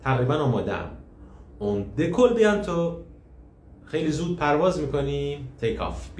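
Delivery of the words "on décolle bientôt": put-on excited child voice. Caillou excited before takeoff.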